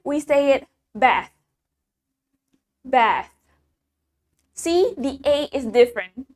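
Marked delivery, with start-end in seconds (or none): 0.9-3.3 "bath" with a shorter A, falling; American short A. Shown as a demonstration. Teacher modelling American "bath" with short A. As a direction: cut the vowel of "bath" short. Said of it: "While in American".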